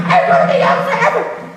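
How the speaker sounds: put-on very high, breathless child's squeal; boasting little boy. Little boy boasting to old father he'll stay young, squealed high. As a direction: squeal it like a gleeful kid.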